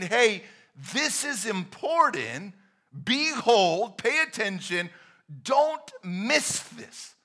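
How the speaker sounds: urgent call fading to a hush; urgent Jesus voice. Pretend. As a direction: voice Jesus urging you to listen. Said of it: "he's saying".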